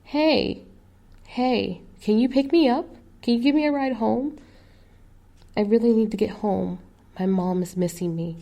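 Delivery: high, loud plea for a ride; calling out. Retold or imitated. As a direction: shout after a passing car. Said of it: "the girl yelling".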